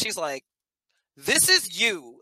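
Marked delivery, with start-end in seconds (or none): 1.2-2.2 slow, emphatic mock insistence; imitated pissed-off child. Six-year-old insisting the Barbie is Sharon, imitated annoyance. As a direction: draw out each word in mild mock anger. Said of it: "And she gets pissed".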